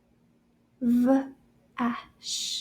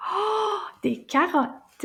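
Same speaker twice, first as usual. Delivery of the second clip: delighted reveal; 6 semitones higher, slower than usual. Acted. Revealing the carrots.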